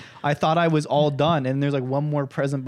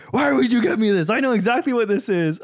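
mildly acted annoyance, raised pitch; pissed-off dad; 6 semitones higher than usual. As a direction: imitate an irritated dad's complaint. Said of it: "he was pissed off".

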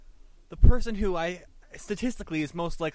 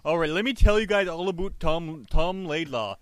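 Canadian hockey guy. Pretend. Pitching Tom Laidlaw to friends in a mock Canadian accent. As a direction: talk up your buddy Tom in a Canadian accent. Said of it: "I gotta get in my Canadian mode here".

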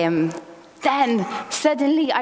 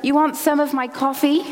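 mild mock yell, raised in pitch; retold yell; 4 semitones higher than usual. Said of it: "he looked up and yelled".

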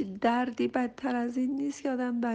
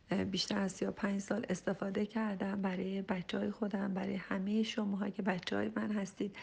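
a confiding whisper to the viewers; whispered aside; 2 semitones lower, 5 dB quieter than usual. Real, not acted. Confiding long practice.

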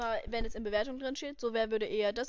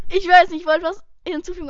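laughing; 7 semitones higher, 13 dB louder than usual. Real, not acted. Laughs after being questioned.

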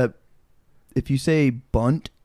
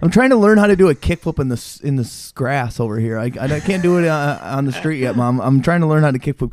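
put-on whiny kid; 3 dB louder than usual. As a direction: protest like a kid at mom. Kid self answering mom.

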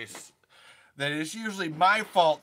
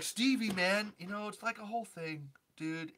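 a hint of an imitated podcaster, higher pitched; Steve Wilson; 5 semitones higher, 4 dB quieter than usual. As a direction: lightly mimic a friend, higher and soft. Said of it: "this is where I say my impression of Steve".

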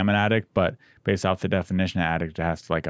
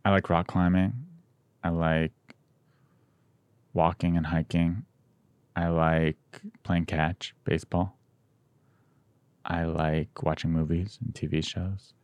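sexy voice; 3 dB quieter, slower than usual. Pretend. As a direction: purr the hobbies like a come-on. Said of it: "I'm saying it in a sexy voice".

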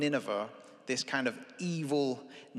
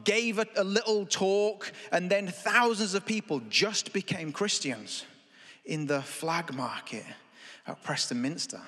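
higher, wide-eyed amazement that settles; amazed onlooker; 4 semitones higher than usual. Pretend. Watching from a distance, higher amazed onlooker. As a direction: marvel at what you just saw. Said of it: "And you're like".

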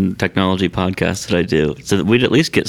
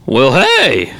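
put-on voice; 3 semitones higher, 7 dB louder than usual. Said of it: "I'll do a voice".

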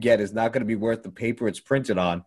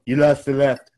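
lighter Trump take; 5 dB louder than usual. Retold or imitated. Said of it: "that sounded even better when I did it that way".

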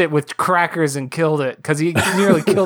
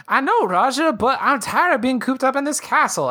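mock Jasmine; 8 semitones higher than usual. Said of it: "she's like".

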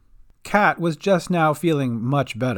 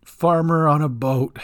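Gran repeats it. Acted. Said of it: "repeated Gran".

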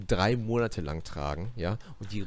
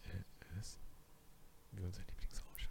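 numb mouth after anaesthetic; numb from the dentist; 5 semitones higher than usual. Real, not acted. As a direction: speak through a numb mouth. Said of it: "Die Betäubung lässt ein bisschen nach".

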